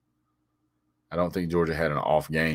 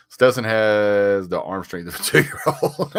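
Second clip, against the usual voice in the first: laughing; 4 semitones higher, 4 dB louder, slower than usual. Real, not acted. Reading a funny comment.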